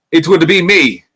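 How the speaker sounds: put-on half-hearted Scottish accent; Scottish accent attempt. Podcaster quoting a fighter's announcement, botched Scottish accent. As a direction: try a Scottish accent, badly. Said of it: "I can't do a Scottish accent".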